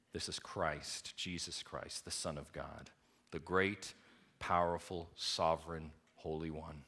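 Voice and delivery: soft, low preaching; a pastor letting the truth sink in; hushed awe. Acted. Hushed reverent naming.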